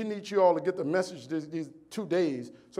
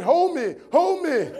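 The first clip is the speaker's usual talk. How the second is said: much higher, louder begging; pleading yell; 9 semitones higher, 6 dB louder, slower than usual. Retold or imitated. Injured speaker begging his client, high and loud. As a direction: beg to be held, half comic.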